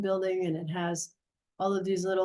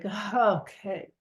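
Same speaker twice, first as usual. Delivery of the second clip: frustrated; slower than usual. Retold or imitated. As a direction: mildly let down, retold grudging acceptance. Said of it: "I'm, like, so, like, frustrated".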